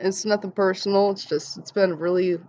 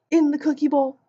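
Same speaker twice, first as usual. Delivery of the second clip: laughing through it; 8 semitones higher, 3 dB louder than usual. Retold or imitated. Laughing while quoting herself.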